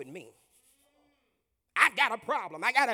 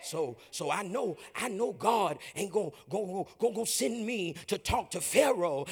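stuttering Moses; 2 semitones lower, 4 dB quieter than usual. Acted. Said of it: "talking to him like this".

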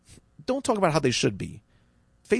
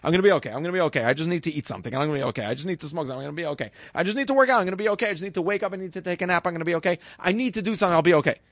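anxious self-reassurance; much faster than usual. Retold or imitated. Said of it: "Instead of trying to have the need of certainty".

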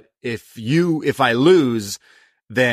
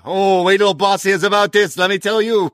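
put-on much higher, louder, sing-song Italian mob accent; mock Italian accent; 8 semitones higher, 4 dB louder than usual. Fan imitating the Italian lady threatening to tell the boss, hammed-up Italian accent. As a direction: ham up an Italian gangster lady tattling, with an Italian accent. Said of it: "thick Italian accent".

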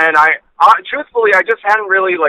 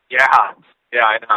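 on speakerphone; 5 semitones lower than usual. Real, not acted. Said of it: "why you sound like you're on speakerphone".

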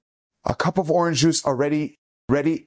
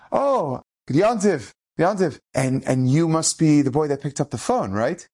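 kindly greeting, lightly acted; very gentle. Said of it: "Like, very gentle".

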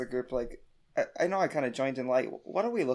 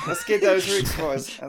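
lightly raised echoed cheer; echoed rally cry; 5 semitones higher, 4 dB louder, slower than usual. Acted. A player echoes the rally cry to the group. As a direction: join the rally.

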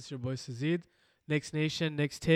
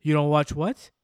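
incredulous; 8 dB louder than usual. Retold or imitated. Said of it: "they're like".

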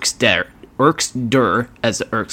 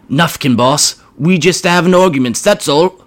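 high, louder cringing goblin whine; whimpering grot; 6 semitones higher, 5 dB louder than usual. Acted. Grot caught by the boss, whimpering. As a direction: plead weakly like a scared goblin. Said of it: "whimpered one of the Gretchens".

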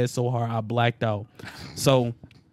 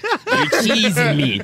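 put-on Toronto accent; 9 semitones higher, 7 dB louder, slower than usual. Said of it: "Toronto accent".

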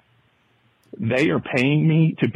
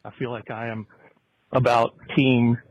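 breathless while walking; out of breath. Real, not acted. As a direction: talk while out of breath on a walk. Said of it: "I might be a little out of breath".

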